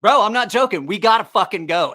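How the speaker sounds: retold urgent buddy; urgent insistence. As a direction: play the friend hurrying him out. Friend insisting they leave.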